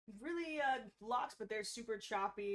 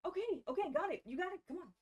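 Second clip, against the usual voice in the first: high, louder, hurried okays; frightened agreement; 9 semitones higher, 5 dB louder, faster than usual. Acted. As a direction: agree fast under threat. Prisoner agrees under gunpoint.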